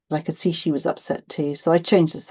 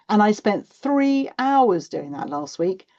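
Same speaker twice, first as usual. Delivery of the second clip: drawn-out, higher stress on "three hours"; indignant complaint; 4 semitones higher, 3 dB louder, slower than usual. A narrator's reading. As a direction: lean slowly on "three hours", aggrieved. Child complaining about mark.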